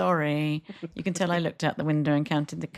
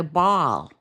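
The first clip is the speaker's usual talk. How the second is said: exaggerated Canadian accent. Showing how they would say it, exaggerated Canadian accent. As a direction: open Canadian vowel in Ball. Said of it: "they would go".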